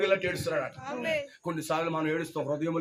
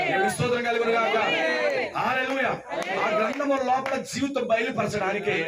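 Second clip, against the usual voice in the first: insistent preacher's questions, slightly raised; rallying preaching; 5 semitones higher, 3 dB louder than usual. Real, not acted. Preacher challenging a sister to say hallelujah, rallying. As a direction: press each listener for a response.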